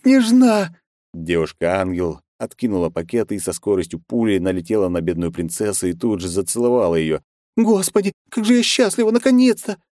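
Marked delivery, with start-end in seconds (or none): 0.0-0.8 very high, loud squeal of a name; high squealing cry of recognition; delighted shriek. Acted. Joyful shriek on seeing princess. 7.6-9.8 very high, loud gushing joy; high breathless happy gushing; overjoyed squeal. Acted. Kristina overjoyed hugging friend.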